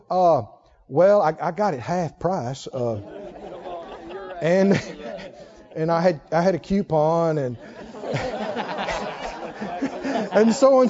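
embarrassed excuse. Retold or imitated. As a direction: play a squirming believer caught out. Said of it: "And they go".

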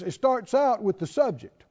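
ordinary talk

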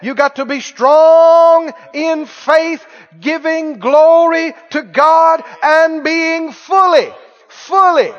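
slow, loud, drawn-out preaching; preaching at full force. Acted. Pastor exhorting the congregation to be fully persuaded, preaching hard. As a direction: lean into every word like a revival preacher.

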